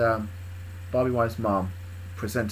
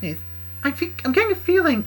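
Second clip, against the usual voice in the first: high, raised character voice; Kendra in character; 14 semitones higher, 5 dB louder than usual. Acted. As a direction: start her reply in a raised voice. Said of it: "Bob looked angry and she said".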